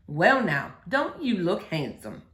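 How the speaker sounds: preacher's voice. Acted.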